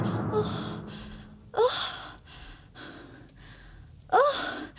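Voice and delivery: weak, airy oh; faint gasps. Acted. Girl suddenly feeling faint, faint breathy gasps. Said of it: "I'm feeling faint".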